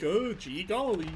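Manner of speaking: high, loud, drawn-out gee-whiz; slow, hammed-up wholesome amazement; mock-earnest exclamation. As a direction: exaggerate it like you really mean it. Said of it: "I'm not, like, saying that".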